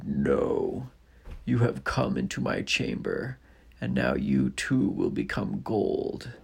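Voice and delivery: slow, looming threat; dragon voice. Acted. Dragon refuses.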